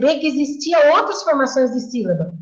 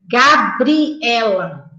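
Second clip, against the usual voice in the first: spelled out slowly; much slower than usual. Shown as a demonstration. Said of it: "Tem a ordem certa".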